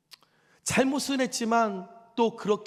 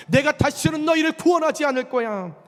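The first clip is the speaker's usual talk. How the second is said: louder, higher stern declaration; a father-like God refusing to save his people, stern; harsh stern God; 4 semitones higher, 4 dB louder than usual. Retold or imitated. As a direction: lay down the punishment harshly. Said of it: "그렇게 모질게 말씀하셨는데".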